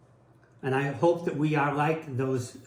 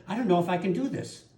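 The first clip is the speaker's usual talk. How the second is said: higher, quick, a light voicing of Kathy in tears; quoting his partner; 6 semitones higher, faster than usual. Pastor voicing his crying partner's doubt, higher and quick. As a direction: lift the voice to echo her worry. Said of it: "She said".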